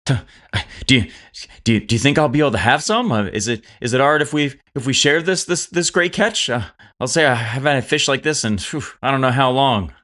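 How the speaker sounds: tentative, eager character voice; Jed. Acted. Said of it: "Jed looks over at Toko's like".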